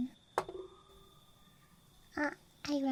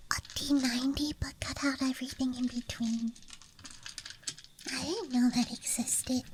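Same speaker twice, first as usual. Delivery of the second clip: ASMR whisper. Real, not acted. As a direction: whisper close to the mic. ASMR dice show-and-tell.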